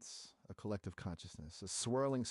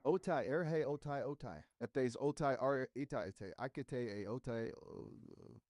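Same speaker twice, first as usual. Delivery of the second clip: mock scream; 4 semitones higher, slower than usual. Shown as a demonstration. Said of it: "Can you scream it now".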